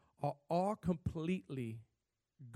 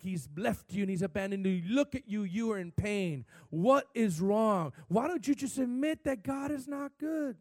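lightly voiced devil, raised and pressing; taunting devil; 4 semitones higher, 5 dB louder than usual. Preacher voicing the devil taunting someone in pain, mildly raised. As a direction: accuse them as the devil, with a hint of a scream. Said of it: "the devil is screaming".

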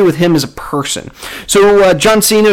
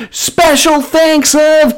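drawn out; 10 semitones higher, much slower than usual. Real, not acted. Stretched high sign-off credit.

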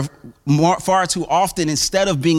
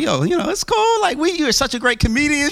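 higher-pitched, casual talking-down of a fan; soothing star, imitated; 8 semitones higher than usual. Famous host calming a crying fan, mock soothing. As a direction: play at calming someone who is overwhelmed. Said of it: "Oprah's trying to calm her down".

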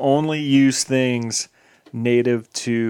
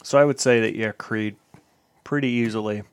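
mouth full. Real, not acted. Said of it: "Sorry, I'm eating this".

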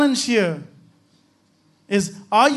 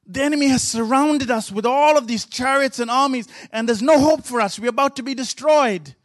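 higher, anxious pleading as the frightened servant; panicked servant; 3 semitones higher than usual. Retold or imitated. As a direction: voice the servant losing hope, pitched up. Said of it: "and he says".

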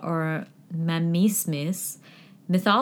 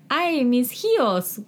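mock wail; 6 semitones higher, slower than usual. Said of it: "La Llorona is said to cry".

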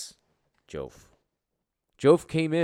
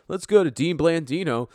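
imitating a TV host; 7 semitones higher, 7 dB louder than usual. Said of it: "they're like".

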